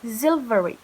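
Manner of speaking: silvery with a buzzing V; bold V. Shown as a demonstration. Teacher modelling silvery. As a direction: press the V in silvery.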